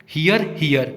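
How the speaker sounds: हियर twice, both as hi-yar; identical pronunciation. Shown as a demonstration. Teacher reads both homophones for students, हियर sounded identically as hi-yar. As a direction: say हियर, हियर exactly alike, as two homophones. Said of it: "pronunciation तो एक ही जैसा लग रहा है".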